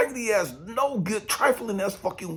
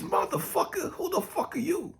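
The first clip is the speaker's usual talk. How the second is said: high, sharp rebuke from above; a mock-divine telling-off; God scolding; 12 semitones higher than usual. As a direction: scold him like an exasperated God. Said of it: "what God had to remind me is".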